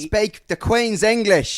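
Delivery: posh English voice. Pretend. Mocking posh English quip.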